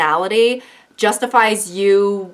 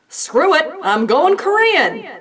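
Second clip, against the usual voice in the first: high, slow mocking tween voice; airy mock of a clueless teen; 8 semitones higher, 3 dB louder, slower than usual. A vlogger mocking tweens, in a high airy tween voice. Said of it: "they're basically just like".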